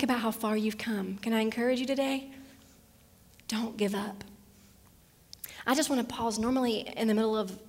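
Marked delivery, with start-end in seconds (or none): 3.5-4.2 whisper. Real, not acted. Pastor urging a discouraged listener on, whispered.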